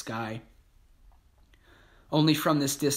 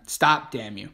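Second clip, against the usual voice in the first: yelling; 3 dB louder than usual. Acted. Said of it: "an S S man yells after them".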